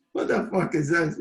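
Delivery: hammed-up angry manager; mock angry gaffer. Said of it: "He says".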